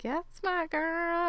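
high, slow, soft proud purr; mother praising a devious daughter; proud mom. Retold or imitated. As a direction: savor her daughter's cunning. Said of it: "Mama Feather is like".

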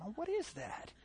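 high, hushed puzzled aside; mock puzzled, hushed and high; puzzled whisper-soft question. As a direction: wonder quietly what that noise is. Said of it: "you're thinking".

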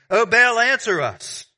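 loud, high, drawn-out plea; calling on a god. Acted. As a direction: call out to the heavens, stretching the words. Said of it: "they called upon the name".

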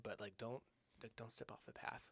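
half-whispered retold warning; hushed warning. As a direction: warn him under your breath. Buddy's hushed warning in field.

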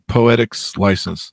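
"poetics license" drawn out slowly with an extra s on poetics; joking mispronunciation. Pretend. Deliberately garbles the phrase as joke.

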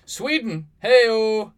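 loud, high hype shout; excited shout. Real, not acted. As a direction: hype the crowd up. Hyping up a country shout-out.

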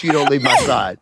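hushed urgent whisper. Retold or imitated. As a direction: whisper the plea to his wife. Whispered plea to wife.

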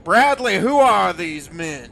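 angry demand. Acted. Boss confronts narrator at worksite.

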